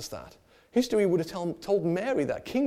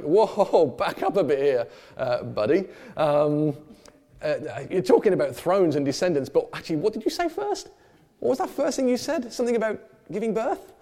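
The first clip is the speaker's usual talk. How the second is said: startled Mary; 2 semitones higher, 4 dB louder than usual. Retold or imitated. Preacher voicing Mary interrupting the angel, mock disbelief. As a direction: pull the angel up short, incredulous. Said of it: "She's like".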